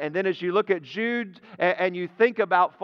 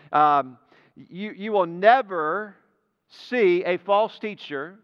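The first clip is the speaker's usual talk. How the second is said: ordinary talk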